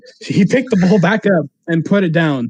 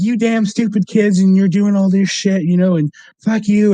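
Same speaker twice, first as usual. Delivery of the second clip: mock yelling; 4 semitones higher than usual. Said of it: "like, yelling".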